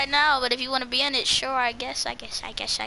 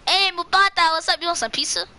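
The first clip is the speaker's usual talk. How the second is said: mock friendly greeting; 6 semitones higher, faster than usual. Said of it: "and I will say".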